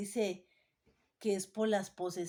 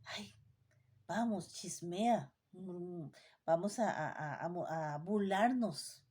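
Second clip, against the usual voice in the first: slow, low and hushed, a sly invitation to gossip; 3 semitones lower, slower than usual. Acted. A preacher voicing the temptation to gossip: slow sly hush. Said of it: "La voz que te dice".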